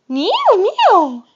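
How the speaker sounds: cat meow. Shown as a demonstration. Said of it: "What does a cat say?".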